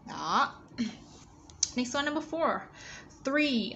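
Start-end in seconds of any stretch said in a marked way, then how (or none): 3.2-3.7 THREE starting on a voiceless TH; higher model "Three" with an unvoiced TH; tongue between teeth to begin "Three", no voicing. Shown as a demonstration. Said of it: "ở đây là T H không tỏ".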